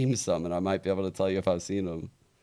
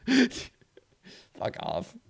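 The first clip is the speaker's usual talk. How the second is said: high squawking parrot. Retold or imitated. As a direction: screech it like a parrot.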